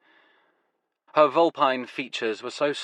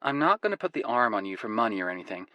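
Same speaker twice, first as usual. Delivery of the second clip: put-on quick, reassuring American woman, American accent; young American woman, fast, American accent; faster than usual. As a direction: brush off the money worry, American accent. Woman character voice.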